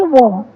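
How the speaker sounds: "वो" as a w sound with rounded vowel; letter sound demo. Shown as a demonstration. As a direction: sound out "वो" for learners. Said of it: "W की sound होती है".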